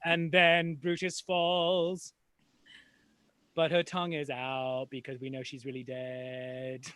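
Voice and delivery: slowed-down dramatic narration; slow-motion narration. Acted.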